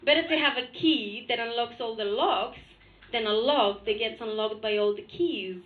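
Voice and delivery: low, measured motherly lecture; condescending mother. Retold or imitated. Mother lecturing her daughter with a proverb, condescending. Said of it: "very condescendingly, may I say".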